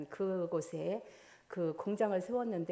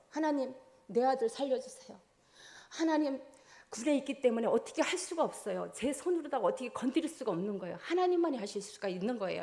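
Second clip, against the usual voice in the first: higher, crying out to God for her son; desperate prayer; 4 semitones higher than usual. Retold or imitated. A mother prays for her injured soldier son, pleading. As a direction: beg for the son's life.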